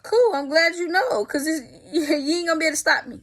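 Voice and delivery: high, chirpy retold reply; hammed-up high and bright; mock cheerful. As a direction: sound sarcastically pleased. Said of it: "So I'm like".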